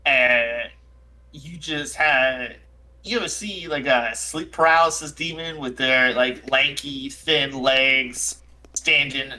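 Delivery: lightly voiced shaken, aggrieved character; a touch of wounded indignation; Jack O'Toole. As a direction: mildly reproach a friend who scared you. Game master voices Jack O'Toole.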